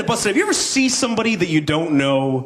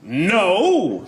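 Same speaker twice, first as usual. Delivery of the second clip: superhero refusal; 5 semitones higher than usual. Pretend. Superhero turning down a hooker, bold refusal. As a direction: refuse firmly like a hero. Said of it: "superhero being propositioned".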